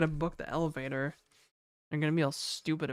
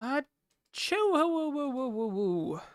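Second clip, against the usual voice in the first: sneezing; 7 semitones higher than usual. Real, not acted. Sneeze then shaking it off.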